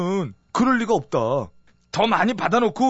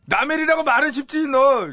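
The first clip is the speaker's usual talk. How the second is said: indignant reproach; 4 semitones higher than usual. Acted. Rebukes servant's easy sympathy.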